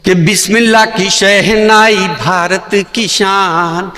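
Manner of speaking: rising declaimed verse, climbing to a shout; poem recital. Acted. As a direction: recite like a stage poet.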